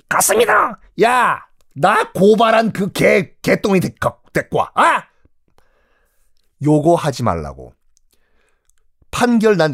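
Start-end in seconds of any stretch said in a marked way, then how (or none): 0.1-0.8 very high, thin official's reply; high-pitched servant answering the magistrate. Acted. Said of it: "넌 목소리가 왜 그러냐?". 1.0-5.0 slow, higher sly menace; crooked magistrate ordering the accuser brought in; scheming magistrate. Acted. Vengeful magistrate summons accuser.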